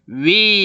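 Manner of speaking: 위 as a gliding "wi"; everyday gliding 위. Shown as a demonstration. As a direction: say 위 moving from w into i. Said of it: "이렇게 발음하잖아".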